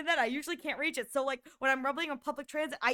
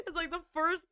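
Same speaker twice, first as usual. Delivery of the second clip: laughing; 3 semitones higher than usual. Real, not acted. Laughing at being called short.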